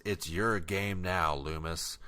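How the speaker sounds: a hint of a dying man, slow and fading; dying villain's last words. Retelling the film, a lightly voiced dying doctor. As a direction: let the line drain away on the name. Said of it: "and he says".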